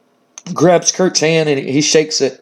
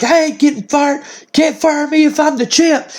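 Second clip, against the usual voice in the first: much higher, put-on cocky brawler voice; mock tough-guy champion voice; boastful wrestler voice; 10 semitones higher than usual. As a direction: brag like a heel champ who can't be touched. Wrestler boasting in retold scene.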